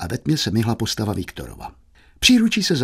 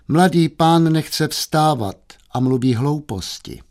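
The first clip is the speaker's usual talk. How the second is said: raised, drawn-out announcement; maid reporting; 4 semitones higher, slower than usual. Acted. Maid announcing young master's nonsense downstairs, high slow report. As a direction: report it slowly, pitched up. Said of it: "hlásila".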